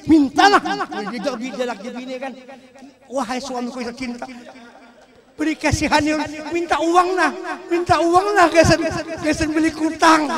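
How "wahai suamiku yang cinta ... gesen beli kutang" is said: lightly voiced wife pleading for money; wheedling wife. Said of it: "minta duit aja kita pakai intonasi".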